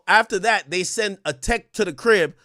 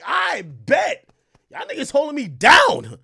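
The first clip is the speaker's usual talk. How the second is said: mock hyped thanks; 8 semitones higher, 5 dB louder, slower than usual. Thanking tech in mock enthusiasm.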